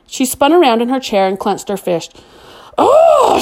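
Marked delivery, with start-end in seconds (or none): 2.8-3.4 high, loud cry of pure frustration; frustrated scream. A narrator's reading. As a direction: let it burst out through clenched teeth. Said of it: "she screamed with a grimace of frustration".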